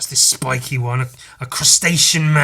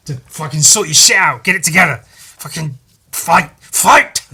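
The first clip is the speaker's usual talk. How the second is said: 1 mock yell; 3 semitones higher, 8 dB louder than usual. Retelling id yelling at hero.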